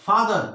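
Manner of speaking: फादर with weight on फा; stress on first syllable. Shown as a demonstration. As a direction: lean on फा, let दर fall away in फादर. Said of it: "stress यहां आ रहा है".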